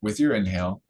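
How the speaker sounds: calm, measured phrases with long pauses; guided meditation. Real, not acted. Teacher leading listeners to focus on the root chakra, guided meditation. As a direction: guide their attention gently, phrase by phrase.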